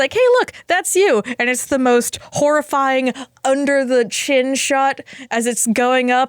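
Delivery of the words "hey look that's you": put-on doctor talking to child. Doctor showing a patient the camera view, as if to a child. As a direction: talk down to a seven-year-old. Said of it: "apparently they think I'm seven".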